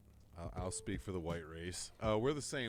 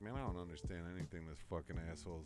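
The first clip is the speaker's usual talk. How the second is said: laughing quote; 4 semitones lower, 8 dB quieter, faster than usual. Retold or imitated. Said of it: "I'm like".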